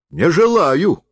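high, curt refusal; refuses, pitched high. A narrator's reading. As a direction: shut him down. Refuses the forester.

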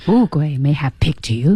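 slight lift at the final "you"; rising tone on you. Shown as a demonstration. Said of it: "you也有一个扬调".

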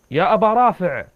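a restrained storyteller's shout; calling out. Acted. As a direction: call out a name into the dark. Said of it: "فصرخت وقلت".

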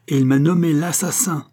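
high, loud accusation; strident. A narrator's reading. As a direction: hurl the accusation at him. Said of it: "d'une voix stridente". (voix stridente, accusatrice)

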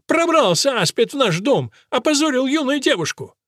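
намного выше и громче; кричать с возмущением; визгливое обвинение. A narrator's reading. Элис продолжает визгливо обвинять. (Элис визгливо обвиняет Мэрфина)

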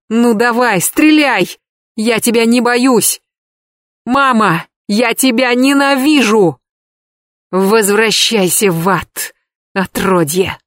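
a son daring his mother to shoot; hate-filled scream. A narrator's reading. (яростный крик ненависти)

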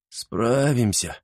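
dismissive. Acted. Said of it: "отмахнулся Чермес".

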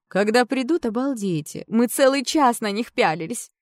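put-on high, loud girlish gushing; excited gushing. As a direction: gush over the boys. Girls gushing about boys.

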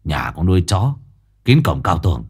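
dismissive. Acted. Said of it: "Hùng xua tay đáp".

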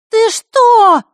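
loud, very high alarm; shocked she said the name. Acted.

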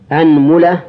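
أنملة said "anmula", a then u; a-u vowels. Shown as a demonstration. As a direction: open on a, then "mula". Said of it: "هذا في الفتح".

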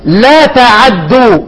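لا تعدوا drawn out slowly, each sound held; slow recitation demo. Shown as a demonstration. Teacher slowly reciting لا تعدوا to students. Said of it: "هيبقى عندي فيها".

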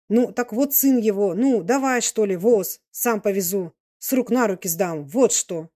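mildly impatient peasant urging; lightly voiced tipsy old man, insistent. Old man offers to drive boy home, insistent urging. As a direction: press the point like an excited old man.

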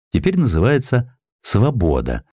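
plain reading voice

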